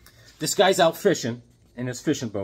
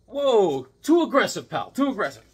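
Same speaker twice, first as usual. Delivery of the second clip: backing off; 5 semitones higher, 5 dB louder than usual. Acted. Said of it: "They're like".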